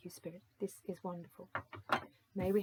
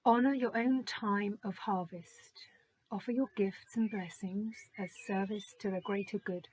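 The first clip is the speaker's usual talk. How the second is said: whispered card reading; 4 dB louder than usual. Acted. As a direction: breathe the card's words like a secret blessing. Reads the card's message.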